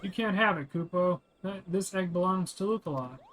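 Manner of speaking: lightly voiced little Moogle, stubborn; defiant Moogle. Streamer voicing the Moogle refusing to give up the egg, defiant. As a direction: plead and refuse like a small creature clutching an egg.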